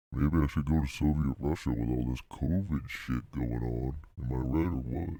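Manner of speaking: low, processed voice; voice effect. Pretend. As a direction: drop it low through a voice effect. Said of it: "use a different effect for it".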